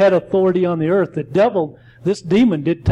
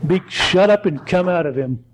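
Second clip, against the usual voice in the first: commanding Jesus. Retold or imitated. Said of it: "Jesus cast him out".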